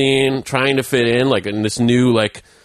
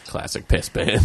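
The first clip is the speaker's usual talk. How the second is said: whispered; 5 dB quieter than usual. Real, not acted. Deadpan joke reply.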